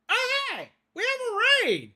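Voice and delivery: very high, thrilled exclamation; excited raid shout. Real, not acted. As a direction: burst out at the surprise arrivals. Streamer sees a raid arrive.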